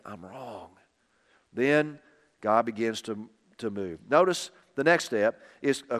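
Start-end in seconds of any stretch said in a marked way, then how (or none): 0.0-0.7 lower, almost breathless I'm wrong; broken admission. Shown as a demonstration. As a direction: let I'm wrong fall away to nearly nothing. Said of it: "when we come to that point of saying".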